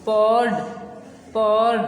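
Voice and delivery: पॉर्ड with a faint r, neither clear nor silent; soft r in poured. Shown as a demonstration. Teacher modelling पॉर्ड for pupils, r barely heard. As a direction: say पॉर्ड with only a trace of the r. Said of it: "थोड़ी सी आवाज़ इसकी आएगी".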